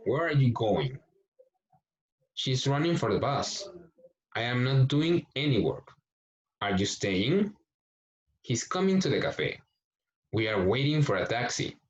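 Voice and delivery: "Where are you going?" with a falling question tune; teacher models sentence stress; teacher models the stress in each sentence for students; question intonation. Shown as a demonstration. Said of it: "le vamos a hacer énfasis de pregunta".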